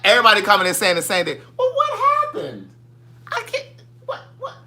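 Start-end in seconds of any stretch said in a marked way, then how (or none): 1.6-4.5 mock them until you crack up; laughing mockery. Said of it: "that's how they talk".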